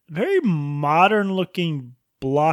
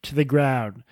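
mock monarch reading. Reading a pompous lawyer's tweet aloud, lightly hammed-up regal. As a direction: savour each word like a smug aristocrat. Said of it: "channel your inner mar-, monarch".

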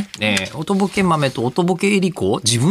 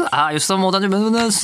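rushed, tossed-off birthday wish; offhand afterthought; 3 semitones higher, much faster than usual. Acted. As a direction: rattle it off like an afterthought. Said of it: "ついで感を出して読まないでください". (ついで感のある早口の読み)

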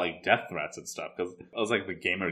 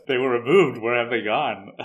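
lightly imitated robot dog, a little louder; robotic dog voice; 3 semitones higher, 5 dB louder than usual. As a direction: quote the talking dog with a hint of robot. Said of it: "talking in, like, a robotic voice".

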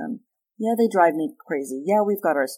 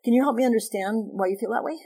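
calm reasonable ask; 5 semitones higher than usual. Shown as a demonstration. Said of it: "externally I can go".

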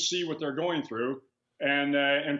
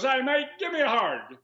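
bright, much higher Australian doctor greeting; 9 semitones higher than usual. Retold or imitated. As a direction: boom out a matey Australian hello. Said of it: "in walks this kind of ruddy-faced, uh, Australian".

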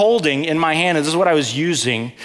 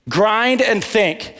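very slow, spaced grind and think; slower repeat; 5 semitones higher, much slower than usual. Real, not acted. Preacher repeats the phrase to the congregation, dragging. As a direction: let grind and think drag.

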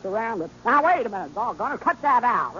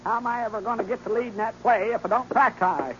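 ordinary talk, nothing marked

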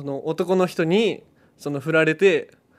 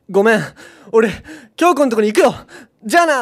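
put-on louder, a bit higher boyfriend breaking it off; boyfriend leaving, louder; 3 semitones higher, 6 dB louder than usual. Man in the skit tells his girlfriend he's leaving, louder and a bit higher. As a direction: dump her and walk off, said louder. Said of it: "ショートコント始まります".

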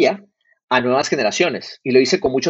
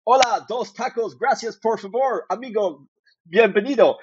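slow, high, exaggerated American accent in Spanish; mock gringo Spanish; 9 semitones higher, slower than usual. Telling the host how gringos order tacos, in mock American-accented Spanish. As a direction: play a confident gringo ordering tacos, slowly. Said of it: "with the confidence con la que un gringo habla español".

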